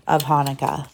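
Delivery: gentle storybook read-aloud; lively picture book narration with voices; reading to children. A narrator's reading.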